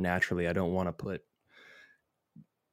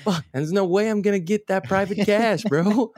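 high, loud frustrated bro; 11 semitones higher, 5 dB louder than usual. Retold or imitated. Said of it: "It's like".

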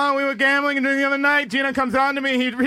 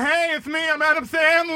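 Adam Sandler impression; 3 semitones higher than usual. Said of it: "a great Adam Sandler impersonation".

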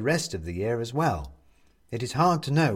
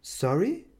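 high, slow concerned woman; a worried neighbour finding him; 9 semitones higher than usual. Acted. Neighbour voiced in story.

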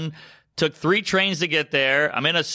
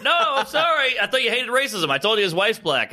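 mock indignant; 7 semitones higher than usual. Acted indignant retort.

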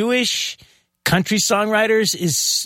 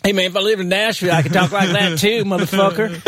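put-on New York accent; faster than usual. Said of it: "talk like one of my neighbors".

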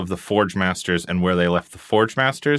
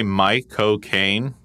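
Cockney accent; much slower than usual. Shown as a demonstration. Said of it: "really fast with, like, a Cockney accent".

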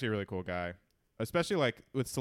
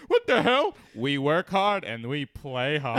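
mock outrage; 6 dB louder, slower than usual. Steel worker caught partying, hammed-up surprised shout. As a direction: fake shock that settles into swagger. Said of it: "And he's like".

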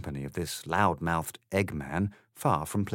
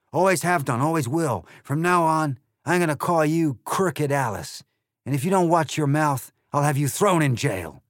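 loud, higher, sneering egg voice; rude Trumpty Dumpty; 7 semitones higher, 7 dB louder than usual. Acted. The egg insults Alice, loud sneering voice. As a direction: sneer it with contempt.

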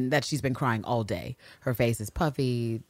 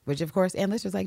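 ordinary delivery

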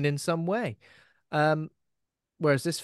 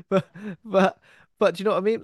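laughing protest; 7 semitones higher, 6 dB louder, faster than usual. Real, not acted.

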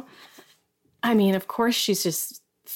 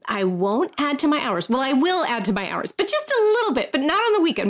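hedging, rising higher as it goes; sheepish; 4 semitones higher than usual. Retold or imitated. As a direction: backpedal sheepishly, voice climbing. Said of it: "in this most sheepish voice I've ever heard her use".

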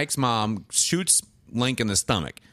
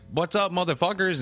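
higher, cocky retold greeting; brash mock entrance; 7 semitones higher than usual. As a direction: announce yourself like a swaggering villain. Acts villain's brash entrance.

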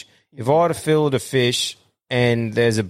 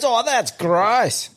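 mock disgusted wife; 11 semitones higher, much slower than usual. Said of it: "She goes".

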